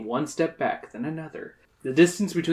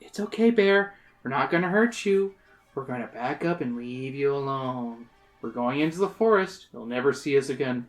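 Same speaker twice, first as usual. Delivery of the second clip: calm and slow. Acted. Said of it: "You begin talking slowly and calmly".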